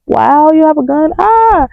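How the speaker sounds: sarcastic wow, then high fake cry; unimpressed, badly faked scare; mock fright. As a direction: feign being impressed, rising into mock alarm. Mocking the harmless gun threat.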